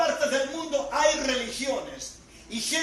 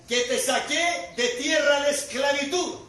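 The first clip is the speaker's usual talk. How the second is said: loud, slow proclamation as God; God declaring; 3 semitones higher, 5 dB louder, slower than usual. Retold or imitated. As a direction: thunder each phrase out with weighty, drawn-out words. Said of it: "le dijo al pueblo algo claro".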